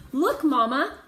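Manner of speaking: put-on child pointing excitedly; excited call. A narrator's reading. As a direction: blurt out the discovery. Excited discovery again.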